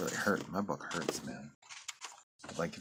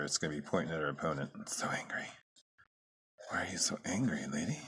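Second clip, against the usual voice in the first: whisper. Acted. Whispering to the angry drawing.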